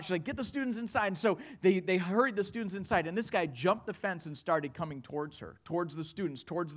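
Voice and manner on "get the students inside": higher-pitched, mildly panicked order; retold freak-out. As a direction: imitate a teacher starting to panic. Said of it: "she was freaking out".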